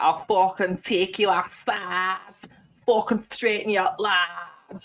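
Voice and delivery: imitating an angry dad squaring up to her; mock thug threat. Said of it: "he instantly was like".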